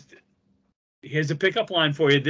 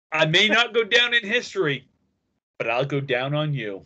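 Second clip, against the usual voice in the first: cheesy pickup line. Pretend. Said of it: "I've got my best pickup line".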